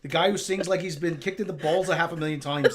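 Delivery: put-on Irish rock star; lightly mock-Irish; Irish accent. A rock star scorning another singer, in a mock Irish accent. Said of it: "do this Irish accent".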